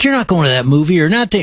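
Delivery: mock-strict dad with a touch of anger; lightly acted parental scolding; laying down the law. Dad laying down the law to his kids, mock mad. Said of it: "we get mad and we lay down a law".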